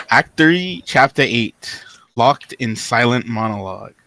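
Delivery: measured, solemn story reading; dramatic reading. A narrator's reading. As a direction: read it out like a grave farewell passage.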